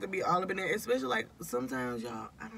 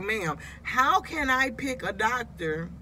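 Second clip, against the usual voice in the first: mock exasperated complaint, pitched up; exasperated retelling; 3 semitones higher than usual. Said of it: "I was like".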